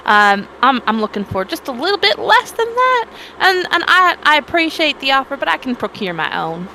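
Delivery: courteous adventurer declining an offer; in-character polite refusal. Acted. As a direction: politely turn down the carriage. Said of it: "I'm gonna look at her and be like".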